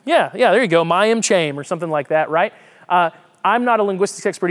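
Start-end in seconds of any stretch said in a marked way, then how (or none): 0.8-1.6 imitated Georgia pronunciation of "Mayim Cham"; Georgia accent. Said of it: "the Georgia pronunciation of this".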